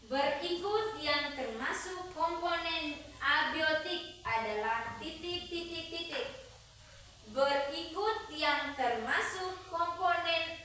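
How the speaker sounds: dictating. Acted. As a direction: read it out for the class to write. Reads quiz question aloud.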